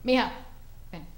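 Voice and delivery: slow, quiet fatherly question; stern father. Retold or imitated. Mexican dad asking his daughter why she likes girls, slow. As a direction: ask it slow and heavy, like a puzzled dad. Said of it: "My dad was like".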